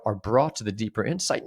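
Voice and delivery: ordinary talk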